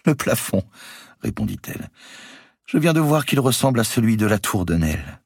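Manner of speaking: high, mocking amusement; amused, laughing reply. Marguerite mocking her cousin, amused and high. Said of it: "se mit à rire".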